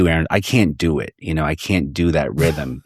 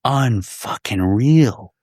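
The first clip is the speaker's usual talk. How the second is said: disbelief; 4 semitones higher, much slower than usual. Real, not acted. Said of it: "the level of stupidity".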